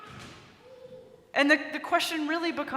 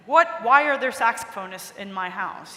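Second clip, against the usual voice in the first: startled outburst; 3 semitones lower, 6 dB louder than usual. Retold or imitated. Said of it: "he thinks to himself".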